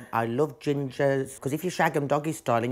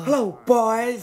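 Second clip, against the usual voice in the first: high, slow, loud flirty purr; sultry greeting; 9 semitones higher, 6 dB louder, much slower than usual.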